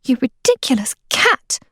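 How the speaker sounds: a mild snap at the cat; snapped. Acted. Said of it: "Meilin snapped".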